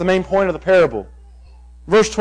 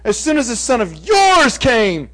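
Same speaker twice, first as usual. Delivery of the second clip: sarcastic. Retold or imitated. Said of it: "Notice the, the sarcasm".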